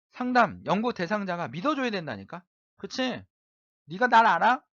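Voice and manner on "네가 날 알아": loud, rude, defiant snap. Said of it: "삐딱하게 얘기하고".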